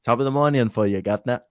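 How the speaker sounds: amateur mock British accent; lightly put-on cheery British greeting. Shown as a demonstration. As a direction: have your best go at a British accent. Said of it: "This is my best".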